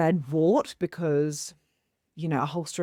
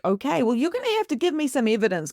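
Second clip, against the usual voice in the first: higher, brisk, mock-stern demand; sassy challenge; 6 semitones higher, 5 dB louder, faster than usual. Speaker challenging the spirit for evidence, sassy. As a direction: push back with playful attitude.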